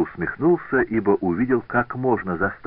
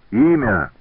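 louder, higher angry demand; furious shout; 6 semitones higher, 6 dB louder than usual. A narrator's reading. Benvenuto demands the rival's name, furious shout. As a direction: bark it out in rage. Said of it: "крикнул в ярости".

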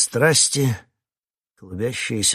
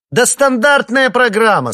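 much higher, louder relieved cry; relieved wail; 13 dB louder than usual. Acted. The coordinator, relieved, hollering the plan at the actors. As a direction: belt it out in relief. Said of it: "с облегчением заголосила координаторша".

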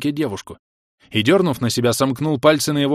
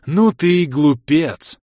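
slow, loud, pitched-up hiss; hissed scold; 5 semitones higher, 6 dB louder, much slower than usual. A narrator's reading. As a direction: spit it out slowly. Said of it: "прошипел Инг". (прошипеть громко и медленно)

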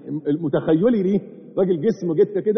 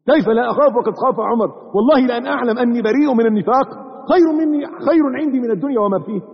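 impassioned repeat; 5 semitones higher than usual. Acted. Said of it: "وكيف لا أخاف وقد خاف عمر".

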